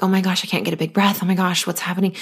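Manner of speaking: rushed, mildly panicky imitation; quick mock panic over a short breath; lightly acted breathless worry; mock freaking out. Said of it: "you're not freaked out about that".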